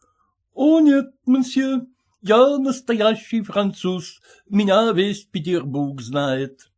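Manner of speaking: hint of a fussy French host; French restaurateur. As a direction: play the polite French caterer, eager to please. Frenchman insists he is genuine.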